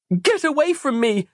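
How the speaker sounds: a frightened yell pushing him off. Acted. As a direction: shout it in a panic. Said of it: "she yelled".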